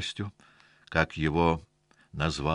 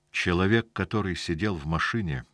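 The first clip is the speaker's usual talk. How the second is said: ordinary delivery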